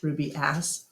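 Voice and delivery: put-on high, eager little elephant girl; young Ruby voice. Narrator voices little Ruby asking Ivan. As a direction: ask like a curious child. Ruby's curious questions.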